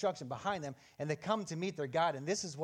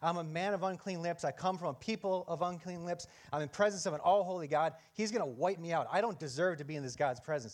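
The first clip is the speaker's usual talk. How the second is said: ordinary talk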